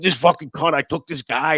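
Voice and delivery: mock angry mutter; repeated curse. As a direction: grumble it again, annoyed.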